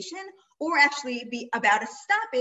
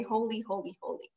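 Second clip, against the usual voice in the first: hushed angels' holy; 2 semitones lower, 6 dB quieter than usual. Shown as a demonstration. Angels' praise that was not said.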